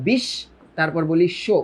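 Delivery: বিশ, then শো, sh in both halves; doubled sh, split. Shown as a demonstration. Teacher showing students the doubled consonant, word split at sh. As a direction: break it into "bish" and "sho". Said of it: "উচ্চারণটা কেমনে করি আমরা".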